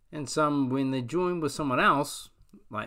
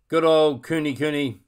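loud owl voice; hooting owl; 4 semitones higher, 11 dB louder than usual. Acted. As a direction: hoot it like an owl. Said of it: "Ruru hooted".

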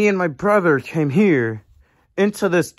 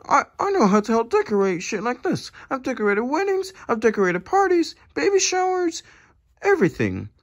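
higher, fast pleading put-on voice; goofy helper bragging of decorating skills, voiced higher; 6 semitones higher than usual. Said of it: "I'm Goofy".

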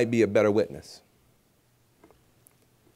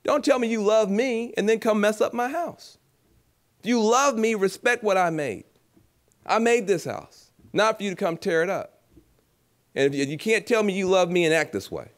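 high, indignant mother voice; a mother telling off a messy child, high-pitched; 7 semitones higher than usual. Retold or imitated. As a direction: scold them as the mother whose house was wrecked. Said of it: "what you can say is".

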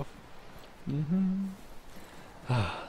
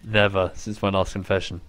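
hushed confession whisper; 12 semitones lower, 8 dB quieter than usual. Pretend. Mock confession to teammate.

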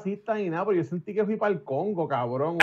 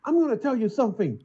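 imitating Stan the Man; 6 semitones higher than usual. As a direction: lean in like a strange old man telling a secret. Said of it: "él me dice". (imitando al señor, lento y confidencial)

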